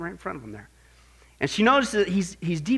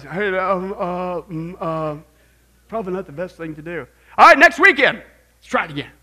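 mock groggy partier who brightens into a much louder cheer; hungover partier; 6 dB louder than usual. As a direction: hem and haw, then cheer loudly.

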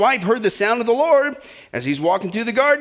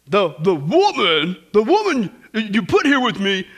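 whiny excuse; 3 semitones lower, slower than usual. Retold or imitated. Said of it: "the man says".

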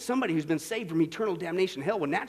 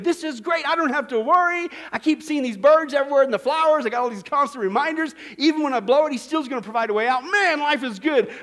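mock cheerful believer; 5 semitones higher, 5 dB louder than usual. Voicing a carefree believer.

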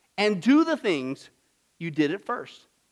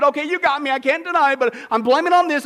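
louder, a touch higher excuse; mock excuse replayed; 3 semitones higher, 4 dB louder than usual. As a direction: replay the excuse with some heat. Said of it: "why we don't love God".

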